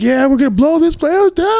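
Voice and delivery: loud, very high rallying yell; hyped-up rock shout. Retold or imitated. Bassist promising a fan a huge show, yelling high and pumped. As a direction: holler it like a pumped rocker.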